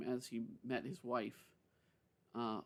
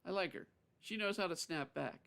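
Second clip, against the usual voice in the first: higher, badly faked Texas accent; mock Texas accent, pitched up; poor Texas accent; 6 semitones higher than usual. A narrator's reading. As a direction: slip into a clumsy Texan voice. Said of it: "unable to keep his poor Texas accent".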